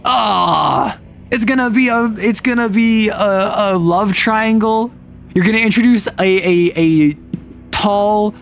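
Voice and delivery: exasperated groan. Retold or imitated. Exasperated fan reaction.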